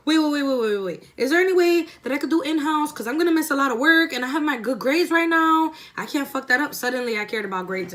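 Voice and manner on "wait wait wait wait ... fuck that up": higher, louder rushed begging; frantic pleading. Retold or imitated. Student begs the principal for in-house instead, frantic. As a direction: plead fast before the door closes.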